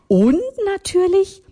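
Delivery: sudden high, coy lead-in; an elderly lady winking at young women, coy and high; teasing old lady. Acted. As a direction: tease before the secret. Older lady, teasing build-up.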